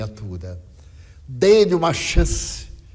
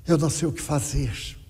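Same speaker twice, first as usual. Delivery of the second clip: the grieving mother, exhausted, repeating her helplessness quietly; quiet despair; 3 dB quieter than usual. Retold or imitated. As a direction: let the helplessness sink into resignation. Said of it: "e ela disse".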